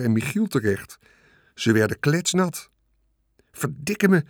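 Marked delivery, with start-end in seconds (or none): 3.5-4.2 higher-pitched, understated bellow; a touch of angry roar. A narrator's reading. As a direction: curse in narrated exasperation. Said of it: "bulderde meneer Hartsuiker".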